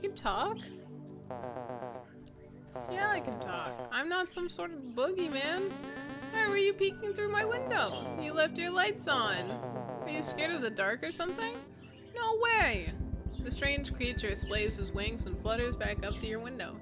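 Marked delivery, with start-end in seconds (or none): 0.0-3.7 squeaky creature voice. Acted. Voicing Atlas and Zara. 3.9-12.9 squeaky creature voice. Acted. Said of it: "a squeaky voice coming through the bushes".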